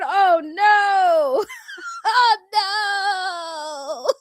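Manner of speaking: a shocked "oh no" that breaks into laughter; cracking up at the texts; laughing disbelief. Real, not acted. Reacting to white girl's N-word.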